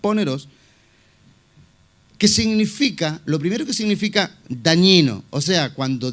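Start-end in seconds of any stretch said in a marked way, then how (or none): 0.0-0.5 "Poneros" with the accent on its last O; stress on final O. Shown as a demonstration. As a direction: repeat "Poneros" as a model, stressing the final -ros. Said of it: "en la O para la parte final".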